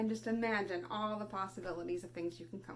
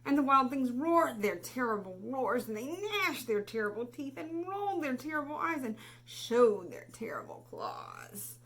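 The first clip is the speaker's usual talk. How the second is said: louder, higher and punchy; dramatic roars; 4 semitones higher, 6 dB louder than usual. Acted. Reading the wild things roaring at Max, loud dramatic. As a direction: ham up the monsters' fury. Monsters' roars read vividly.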